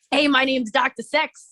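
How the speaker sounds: lightly voiced Brooklyn guy introducing himself. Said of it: "a Brooklyn voice".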